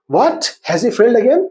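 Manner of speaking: surprised question, rising sharply on "again"; mild surprise. Shown as a demonstration. Teacher reading out an exclamatory pronoun example, mildly surprised. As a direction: ask it slowly in mild disbelief. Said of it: "shows surprise".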